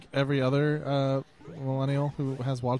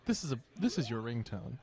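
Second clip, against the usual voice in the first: calm public radio voice; 5 dB quieter than usual. Retold or imitated. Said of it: "a very calm, like, public radio voice".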